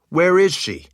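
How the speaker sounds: loud, high impatient shout; anxious husband demanding where his wife is; urgent demand. Acted. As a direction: demand it, beside himself. Richard desperate to see Kaelin.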